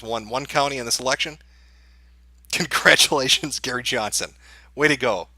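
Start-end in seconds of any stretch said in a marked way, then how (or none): 2.5-5.3 mock congratulations. Real, not acted. Mocking a one-county candidate.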